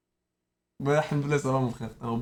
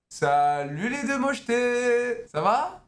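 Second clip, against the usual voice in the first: slow, higher sing-song taunt; mock-friendly greeting; 5 semitones higher, much slower than usual. Real, not acted. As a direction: greet them sweetly while insulting. Mocking greeting to two girls.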